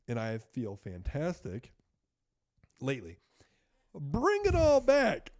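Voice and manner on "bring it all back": high, loud and slow; loud drawn out call. Real, not acted. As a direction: stretch it out like a rallying cry. Calls the story back on track.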